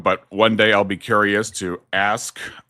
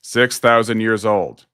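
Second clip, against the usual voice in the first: slow repeat, stressing thousand; slow, clear repeat; slower than usual. Shown as a demonstration. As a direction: spell out thousand slowly so he hears it.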